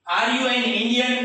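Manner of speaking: slow, deliberate teacher question; slow model question. Shown as a demonstration. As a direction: draw it out word by word. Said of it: "teacher models the question". (ધીમે ધીમે પૂછાયેલો પ્રશ્ન)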